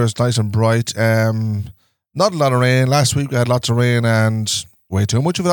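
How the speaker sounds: a hint of an evening weather presenter; mock weather forecast. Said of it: "sounded like a man halfway through".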